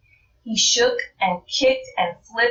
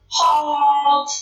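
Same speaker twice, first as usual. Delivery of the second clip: loud booming robot command; robot halt; 7 semitones higher, 4 dB louder than usual. Acted. Robot turns up his volume to stop them, loud command. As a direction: bark the stop order.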